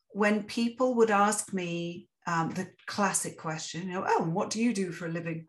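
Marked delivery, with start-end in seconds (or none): 4.1-5.4 put-on quick, lightly posh English accent; a hint of a posh English accent, asked in passing. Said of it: "I put on a posh accent".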